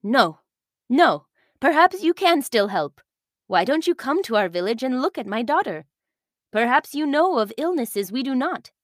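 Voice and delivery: lightly voiced worried village leader. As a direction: plead gently for your sick daughter. Olina begs captain.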